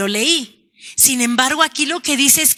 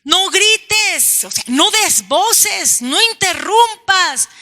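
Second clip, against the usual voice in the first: a hint of a scolding crowd, higher; hushing scold; 6 semitones higher, slower than usual. Crowd by the road hushing the beggar, mild scold. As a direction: shush him, lightly voiced. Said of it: "Trataron de decirle".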